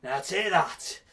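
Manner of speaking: menacing slow-motion line; slow drawn-out threat. Acted. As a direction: drag out each word slowly. Third, slower blow.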